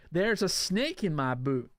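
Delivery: slow, drawn-out toy cowboy catchphrase; Woody. Acted. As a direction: play a drawling cartoon sheriff. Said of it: "What else does Woody say?".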